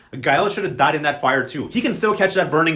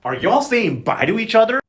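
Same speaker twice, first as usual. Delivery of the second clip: suspicious bust-in; 6 semitones higher, 5 dB louder than usual. Retold or imitated. Camilo bursts in suspicious.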